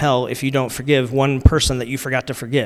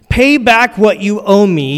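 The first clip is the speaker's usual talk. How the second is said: mild demand; 5 semitones higher, 7 dB louder, slower than usual. A narrator's reading. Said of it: "he demanded".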